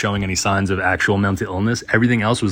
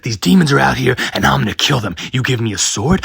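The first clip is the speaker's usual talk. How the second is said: higher, louder imitated ranting shout; mock yell; 4 semitones higher, 3 dB louder than usual. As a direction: play the man shouting about demons, hammed up. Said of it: "screaming at the top of his lungs".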